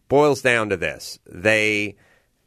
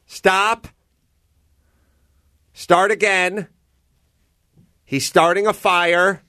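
higher-pitched mock yell of a bossy improv coach; imitated teacher's yell; 7 semitones higher, slower than usual. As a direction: yell the corrections as an exasperated coach, not full volume. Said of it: "heavy-set Jewish broad will yell".

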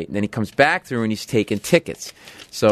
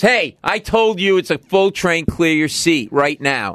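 higher-pitched, slow, emphatic mock order; imitating stern conductor; 5 semitones higher, slower than usual. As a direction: act out an irate conductor laying down the law. Acts out conductor ordering him.

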